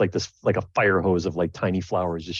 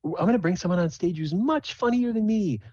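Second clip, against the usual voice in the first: higher, grand stage-announcer voice; showy emcee; 11 semitones higher than usual. Acted. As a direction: introduce the star act with a flourish. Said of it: "she says".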